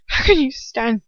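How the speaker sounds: a mild crack in a pained question; understated choked question. Acted. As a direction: let the voice catch a little. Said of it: "voice choked, cracking".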